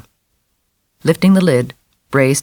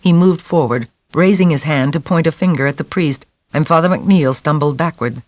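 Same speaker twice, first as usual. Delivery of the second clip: ordinary delivery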